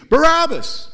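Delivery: loud, high chant of the name; crowd shout. Acted. Crowd shouting to Pilate for Barabbas, loud high shout.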